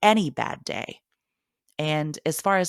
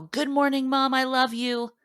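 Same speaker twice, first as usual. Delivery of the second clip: son's mock yell; 10 semitones higher than usual. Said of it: "burst into my room and yell".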